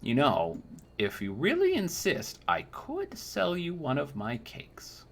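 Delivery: put-on high, sweet old woman voice, fawning; a doting old crone cooing over a young knight; sugary old lady flattering the customer; old crone baker. Old woman sells cakes.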